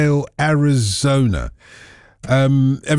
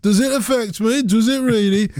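high, singled-out mock Brummie accent; 7 semitones higher than usual. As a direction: put on a Brummie accent, pitched well up. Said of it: "In my Brummie accent".

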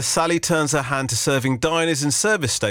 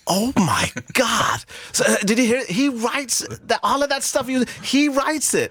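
mock-gushing American TV producer, pitched way up; amazed American producer; 9 semitones higher than usual. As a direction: gush like a stunned Hollywood exec. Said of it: "when I first went to America".

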